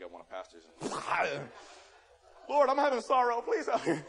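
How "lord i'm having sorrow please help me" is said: mock sorrowful prayer. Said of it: "I'm about to cry now".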